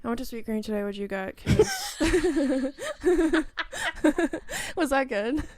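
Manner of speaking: lilting lifestyle influencer. Pretend. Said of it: "Can you please do your influencer voice?".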